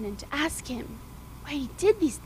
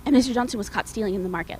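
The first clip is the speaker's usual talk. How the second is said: gossiping mom; 3 semitones lower, faster than usual. Acted.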